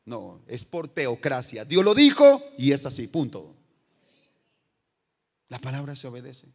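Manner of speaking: "Dios lo dijo y es así" shouted loud, "punto" dropped low; preacher hammering the point; emphatic declaration. Acted. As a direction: bang it down as final. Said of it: "emphatic rebuttal of democracy".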